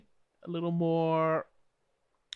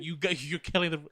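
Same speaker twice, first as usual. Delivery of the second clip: indignant mock denial, pitched up and louder on "no"; 3 semitones higher, 8 dB louder than usual. Joking about being murdered, in denial. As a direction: act out refusing to believe you're dying. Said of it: "in denial that he's gonna die".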